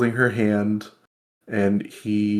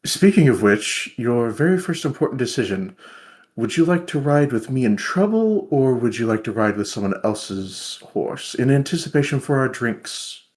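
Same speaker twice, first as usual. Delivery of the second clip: playful teasing; 3 semitones higher than usual. Acted. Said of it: "re-picking back up the playful front".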